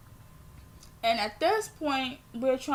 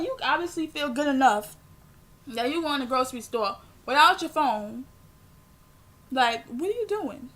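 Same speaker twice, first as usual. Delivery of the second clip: retold scolding; 4 dB louder than usual. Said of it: "I was so pissed".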